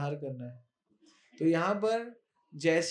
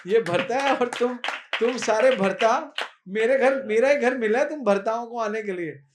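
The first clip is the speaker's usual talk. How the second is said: sarcastic mother; 3 semitones higher, 5 dB louder than usual. Acted. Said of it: "मैया कहती है".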